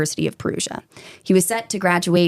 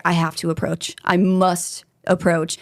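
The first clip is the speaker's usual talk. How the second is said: hint of a botched Italian accent; Italian accent that drifts toward Russian mobster; attempted Italian accent. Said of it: "whenever I try to do an Italian accent".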